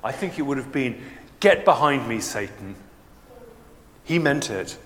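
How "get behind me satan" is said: firm, louder commanding rebuke; powerful rebuke. Retold or imitated. Jesus rebuking Peter, a firm powerful command. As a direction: drive Satan off with force. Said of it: "his rebuke would have been quite powerful".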